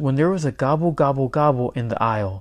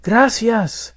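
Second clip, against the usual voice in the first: high, moderately raised yell of a name; 9 semitones higher, 4 dB louder than usual. A narrator's reading. Boy yells after his stolen turkey, calling out. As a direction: call after someone running off. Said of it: "yelled Miguel".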